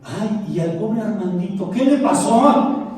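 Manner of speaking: mock pity. Friend pities his baldness.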